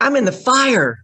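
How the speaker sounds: loud, high comic alarm; mock panic. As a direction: cry out as if doomed. Mock panic after the shock.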